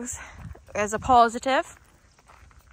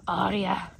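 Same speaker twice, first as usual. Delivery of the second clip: dog's name said low; deeper voice; 4 semitones lower than usual. Shown as a demonstration. Trainer varies recall tone for dog, deeper voice. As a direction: drop the pitch for the call. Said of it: "in a deeper voice".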